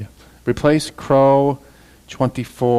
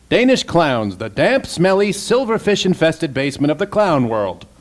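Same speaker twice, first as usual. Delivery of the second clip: performed riff; 5 semitones higher than usual. Acted. Voice actor performing a riff line.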